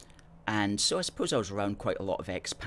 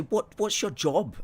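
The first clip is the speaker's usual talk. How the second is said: raised-pitch questioning of critics; quoted challenge; 9 semitones higher, 4 dB louder than usual. Retold or imitated. Critics asking the host about his job, raised-pitch challenge. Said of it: "people who don't like us".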